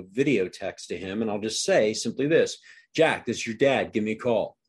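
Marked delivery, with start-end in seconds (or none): 2.9-4.6 firm, plainspoken dad; assertive. Shown as a demonstration. Dad leaving his son a video message, assertive. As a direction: say it as a short, firm instruction. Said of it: "Do you notice my assertive voice".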